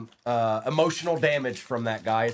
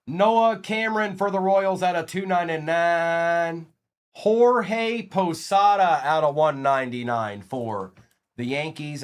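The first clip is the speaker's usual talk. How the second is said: drawn-out announcement of each name; card announcer; 4 semitones higher, 3 dB louder, slower than usual. Acted. Streamer reading out numbered cards for the Royals and Yankees, card announcer. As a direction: present each pull like a roll call.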